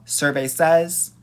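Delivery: drawn-out game show announcer call; game show host. Pretend. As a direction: announce it like a quiz host reveal. Game show reveal joke.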